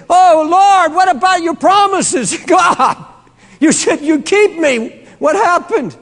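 a preacher voicing Paul's anguished prayer; pleading Paul. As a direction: plead with God, bewildered. Paul voiced crying out to God.

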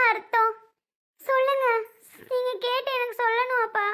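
weeping, demanding an answer; agitated crying. Acted. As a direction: plead in distress through tears. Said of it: "பதறாத, அழாத".

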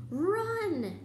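high, loud drawn-out shout; urgent yell. A narrator's reading. Harry to his friends as they flee, urgent yell. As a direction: yell it out to send everyone fleeing. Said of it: "Harry yelled".

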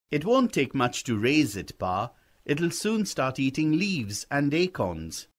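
a hint of a boy talking his father round; persuading young boy. Boy argues the fawn is easy to raise, lightly persuasive.

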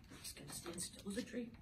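quiet still voice. Shown as a demonstration.

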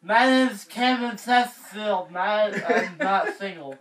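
slow, tongue-held garbled words; holding tongue with fingers. Shown as a demonstration. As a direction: talk while pinching your tongue. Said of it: "Hold your tongue with your fingers and introduce yourself".

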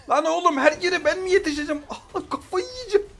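real frustrated laughter; exasperated laugh. Real, not acted. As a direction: laugh it off while losing your mind.

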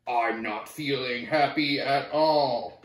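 slow, glum character voice; a mild sulk, slowed right down; mopey Kansas. Acted. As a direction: drag it out like a sulking kid. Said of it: "Because he said".

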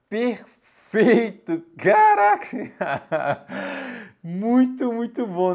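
high, delighted exclamations with laughter; thrilled. Real, not acted. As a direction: burst out with real joy. Eggs came out perfectly cooked.

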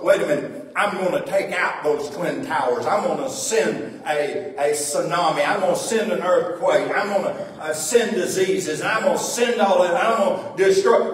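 loud, mock threatening God voice; a preacher hamming up God's wrath; mock angry God.

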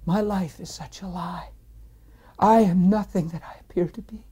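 breaking from a hush into anguish; tearful confession. Retold or imitated. Man confessing his sins through tears at work, tearful. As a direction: confess it as if crying, voice rising and giving way. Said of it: "I started crying profusely, and I said things like".

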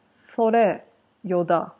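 それよだ said as a clear dialect sample, each syllable even; Shonai dialect phrase. Shown as a demonstration. Teacher demonstrating それよだ to viewers, careful dialect. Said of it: "in Shonai dialect".

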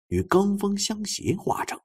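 ordinary delivery, nothing marked

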